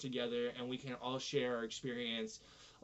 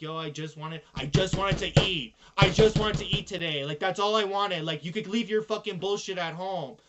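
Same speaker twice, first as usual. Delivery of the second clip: exasperated yell; 3 semitones higher, 7 dB louder than usual. Retold or imitated. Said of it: "looking at your family like".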